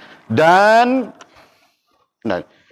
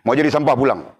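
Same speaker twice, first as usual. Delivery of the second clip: mild mock teacher's rebuke; angry teacher order; 3 semitones higher than usual. Preacher imitating the angry teacher dismissing students, mildly stern. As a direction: tell them to go home, sternly. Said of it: "guru marah".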